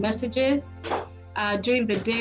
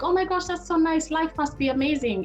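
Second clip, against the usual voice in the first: higher-pitched gushing, imitating impressed onlookers; gushing admirer; 5 semitones higher than usual. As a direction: mimic people cooing over a couple's photo. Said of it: "people see pictures like this and you're like".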